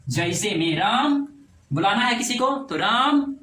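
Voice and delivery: राम stretched long as if calling someone; drawn-out call. Shown as a demonstration. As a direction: call out राम, holding the vowel. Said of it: "क्या इस तरह का स्वर लेते हैं ना".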